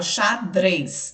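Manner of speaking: "xadrez" carefully pronounced with audible D and R; D and R sounded. Shown as a demonstration. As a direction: let both D and R be heard in "xadrez". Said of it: "dá pra ouvir o som do D e do R". ("xadrez" bem articulado, com D e R audíveis)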